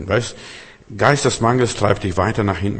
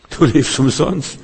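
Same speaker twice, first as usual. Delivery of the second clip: Du lebst umsonst repeated higher and slower; emphatic repeat; 5 semitones higher, slower than usual. Shown as a demonstration. Preacher repeats it to the congregation, raised and slow. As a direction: lift Du lebst umsonst up high and slow it down for impact.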